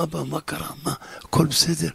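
quietly worried, late at night; hushed son. Acted. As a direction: son asking his weeping father softly. Son wakes at night, father crying.

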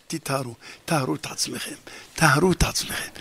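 almost inside the mic, purify yourselves; preacher's soft urgent plea; hushed urging. Real, not acted. Preacher urges repentance softly.

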